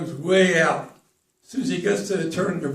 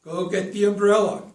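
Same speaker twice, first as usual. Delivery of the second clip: insistent turtle; 4 semitones higher, 4 dB louder than usual. Acted. Turtle reassures and urges friend.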